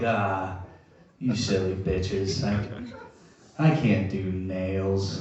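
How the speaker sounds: mock reply. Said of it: "And I'm like".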